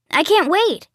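high, eager squeal of anticipation; bursting with excitement. A narrator's reading. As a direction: say it like you're thrilled and can barely hold it in. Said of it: "I'm so excited that I'm about to explode".

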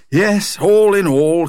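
drawn-out, contented sigh of words. A narrator's reading. Dad relishing how things worked out, contented. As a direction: stretch it out slowly, high and satisfied. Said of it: "stretching out contentedly".

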